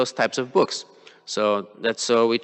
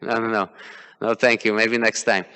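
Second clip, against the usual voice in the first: reluctant inner voice; 2 semitones higher than usual. Retold or imitated. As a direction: play your lazy mind waving the task away. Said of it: "our mind says".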